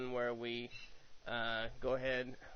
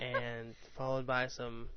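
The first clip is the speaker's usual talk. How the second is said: radio DJ voice. Pretend. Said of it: "I gotta get my radio voice on".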